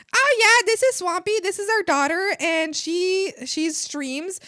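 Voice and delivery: high, loud proud parent voice; hammed-up proud father introducing his kid; mock proud dad.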